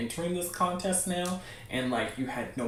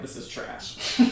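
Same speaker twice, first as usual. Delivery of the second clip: quiet, half-laughed blunt verdict; laughing verdict; 6 dB quieter, slower than usual. Retold or imitated. Imitating honest friends judging her comic, laughing softly. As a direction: giggle through the harsh judgement. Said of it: "they're like".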